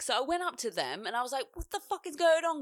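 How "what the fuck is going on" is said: high, loud demanding call; retold confrontation. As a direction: demand an answer, raised and high.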